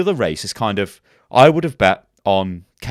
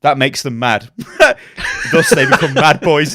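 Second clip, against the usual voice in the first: reading through laughter; 3 semitones higher than usual. Real, not acted. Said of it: "And it just says".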